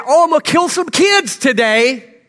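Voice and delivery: sarcastic sing-song; mock sarcastic quote. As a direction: sneer it like a ridiculous lie. Mocking what Satan wants believed.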